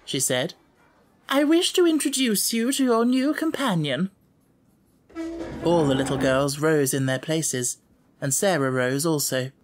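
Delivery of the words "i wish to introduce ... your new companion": dignified headmistress. A narrator's reading. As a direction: call the class to order with dignity. Miss Minchin voiced.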